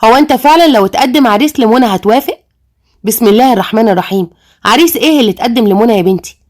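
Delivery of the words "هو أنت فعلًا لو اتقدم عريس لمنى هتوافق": mildly angry question to dad; a touch of anger, challenging. Acted. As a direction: demand an answer, mildly angry. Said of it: "وقالت له بغضب".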